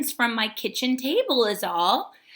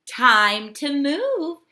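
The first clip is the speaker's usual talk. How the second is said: a slow, raised call to get going; slow Hermit Crab voice; 4 semitones higher, 6 dB louder, slower than usual. A narrator's reading. Teacher reading Hermit Crab to class, slow and raised. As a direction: hermit crab deciding it's time, slow and bright. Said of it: "said Hermit Crab".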